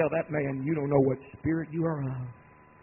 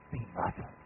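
low, quiet rebuke; low stern command; 11 semitones lower, 9 dB quieter than usual. Acted. Preacher giving the Greek rebuke, low stern command. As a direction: order it down low and soft.

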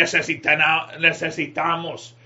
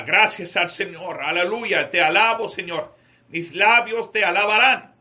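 raised-voice praise, building toward the end; praise out loud; 3 semitones higher, 4 dB louder than usual. Shown as a demonstration. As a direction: call out thanks to God for the congregation to follow. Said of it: "Con voz alta". (alabanza en voz alta, cada vez más fuerte)

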